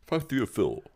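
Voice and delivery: high, put-on posh accent. Co-host reading out a username, hammed-up posh accent. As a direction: read the digits in mock posh English. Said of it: "I'll try it in a posh voice".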